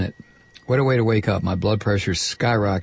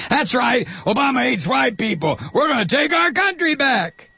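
hammed-up fan cheering, pitched far higher; mock Beck supporter; 13 semitones higher than usual. Host mocking Beck's fans with a much higher hammed-up cheer. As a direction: play the riled-up follower chanting back on cue. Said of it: "Beck's teabagging minions will respond on cue".

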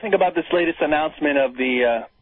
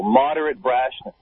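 sarcastic; 3 semitones lower than usual. Acted. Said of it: "repeats ironic phrase slowly".

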